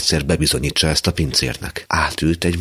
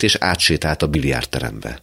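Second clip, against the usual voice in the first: plain reading voice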